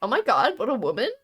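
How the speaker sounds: playful mock dismay, pitch rising; mock outrage. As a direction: tut over it in mock horror. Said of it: "'cause here we're like".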